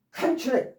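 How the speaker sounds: 컨트랙 hit hard on its opening syllable; stress on first syllable. Shown as a demonstration. Teacher repeating the noun for students, 컨트랙 stressed on the first syllable. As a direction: repeat 컨트랙 as CON-tract, stress up front. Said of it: "앞에 강세 있으면".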